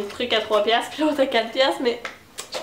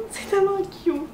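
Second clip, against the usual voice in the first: laughing delight; 9 semitones higher than usual. Real, not acted. Laughs over cute notepad.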